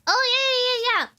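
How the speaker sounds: high, fast eager yeahs; eager yeses. Retold or imitated. Eager daughter answering mom, high pitched. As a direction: gush yes over and over. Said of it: "I'll be like".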